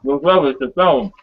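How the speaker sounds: talking through a mouthful of pizza; words round a bite of pizza; mouth full. Real, not acted. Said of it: "With your mouth full".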